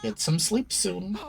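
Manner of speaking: a haunted echo drifting upward; eerie repeating voice. Acted. Possessed girl repeats her warning to the boy, slow eerie chant.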